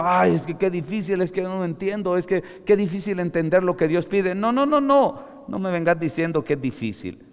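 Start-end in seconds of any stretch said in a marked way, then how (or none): 0.0-4.3 higher whiny complaining voice, lightly mocked; mocking whiner. Preacher mocking believers' excuses, mild whine. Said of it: "No me vengas con cuentos diciendo". 4.3-5.2 much higher, loud no no no; emphatic refusal. Real, not acted. Preacher rejecting the congregation's excuses, loud.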